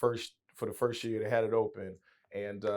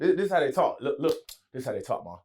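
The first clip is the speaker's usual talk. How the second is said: put-on insistent country accent, settling toward usual pitch; picked-up country accent; 3 semitones higher, 3 dB louder, faster than usual. Son keeps explaining to mom, country accent easing off. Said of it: "I start sounding like them".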